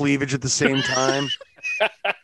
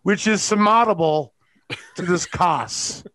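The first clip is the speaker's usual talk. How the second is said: 1 mock lawyer; 3 semitones higher, 4 dB louder than usual. Mock lawyer addressing court.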